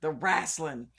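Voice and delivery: "wrestling" punched as a Southern "wrasslin'"; mock Southern pronunciation. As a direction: ham up a Southern twang, loudly. Hammed-up Southern "wrasslin'" again.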